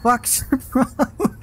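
sudden high-pitched startled cry; startled high yell. Real, not acted. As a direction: yelp it out after a fright. Startled by a jump scare.

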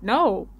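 "No" with a rise and fall in pitch; emphatic no. A narrator's reading. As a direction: lean lightly on "No" to deny it. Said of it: "following it with an emphatic".

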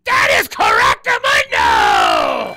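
booming, drawn-out announcer yell; game-show announcer shout. Pretend. Host tells caller he's right, booming drawn-out shout.

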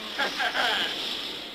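a short, scornful laugh at the priest. Acted. Captain mocking the priest who came on deck, scornful laugh. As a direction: laugh him off with contempt.

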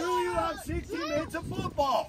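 pumped-up challenge to the team; rallying shout. Real, not acted. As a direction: fire them up with the question. Coach rallies team at halftime.

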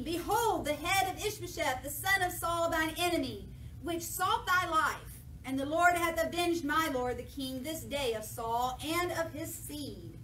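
King James reading voice; scripture reading. Acted. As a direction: read the verse out to the church. Reads scripture aloud.

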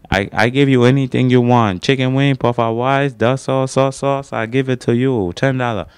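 high-pitched Chinese takeout seller impression; mock Chinese accent. Store worker offering food to a customer, mock Chinese accent. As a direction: push the menu in a high sing-song Chinese accent.

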